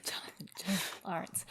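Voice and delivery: whisper. Acted. Whispered name.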